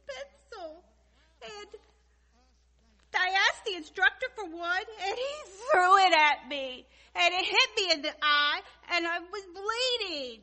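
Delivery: tearful, loud crying complaint; sobbing through the words. Acted. A woman sobbing to God about her bad luck. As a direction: blubber it out between sobs. Tearful prayer, sobs heard.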